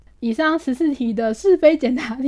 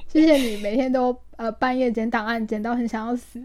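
rushed thanks on one breath, fading out; all in one breath. Real, not acted. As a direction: say it all without a breath, trailing off. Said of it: "不换气向对方说一句感谢的话".

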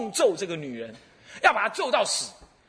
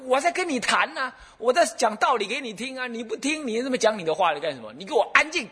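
pitched-up scolding of a noisy ghost; 7 semitones higher than usual. Retold or imitated. Monk scolds the ghost possessing the woman, sharp and high. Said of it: "他就骂他说".

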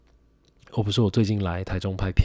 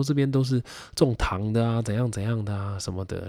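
auntie voice; 3 semitones higher than usual. Retold or imitated. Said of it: "他说".

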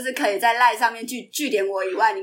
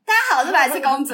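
Princess Idiot voice; 4 dB louder than usual. Pretend. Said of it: "你可以说 “大家好，我是白痴公主".

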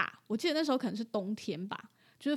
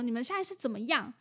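imitating angry owner; 4 semitones higher, 4 dB louder than usual. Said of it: "他就很生气".

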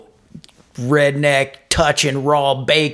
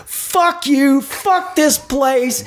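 high, strained mock rant, dragged slow; the cook quitting, cursing the place; angry cook; 11 semitones higher, much slower than usual. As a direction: sneer it out as the furious cook. Cook storms off, voiced.

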